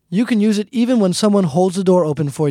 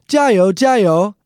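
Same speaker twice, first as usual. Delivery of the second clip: sports cheer; 3 semitones higher, 4 dB louder than usual. Shown as a demonstration. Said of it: "People often say at sporting events".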